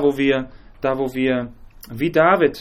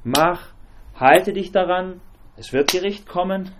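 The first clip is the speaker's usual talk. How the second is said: stern commands; 5 semitones higher, slower than usual. Retold or imitated. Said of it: "Und es wurde gesagt".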